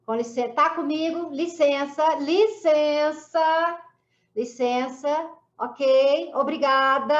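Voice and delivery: loud, high firm orders to clear the room; commanding shout. Retold or imitated. In a white coat, ordering the ward staff out, loud and firm. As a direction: take charge and send people out.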